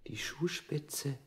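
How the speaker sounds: slow toneless whisper; geflüstert. Acted. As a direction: barely breathe it out, slowly at first. Prisoner recalls being kicked. (langsam und tonlos geflüstert)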